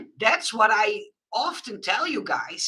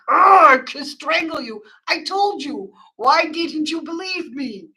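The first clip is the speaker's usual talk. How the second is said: mock exasperation; 9 semitones higher, 6 dB louder than usual. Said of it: "And I had something like".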